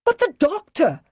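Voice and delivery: high, loud distraught cry. Acted. Liz protesting to the Brigadier about the doctor, distraught high cry. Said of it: "she cried".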